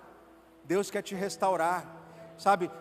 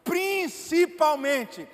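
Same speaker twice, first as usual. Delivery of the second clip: slow, swelling and louder preacher's cry; fervent preaching; 8 semitones higher, 6 dB louder, slower than usual. Acted. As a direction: proclaim it slowly, building to full force. Preaching climax over music.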